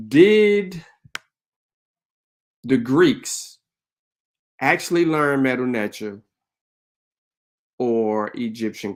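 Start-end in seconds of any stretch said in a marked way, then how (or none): 0.1-6.2 DID drawn out high and loud, then long pauses; emphatic, very clear. Real, not acted. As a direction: spell out the question piece by piece, loudly. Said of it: "let me be clear".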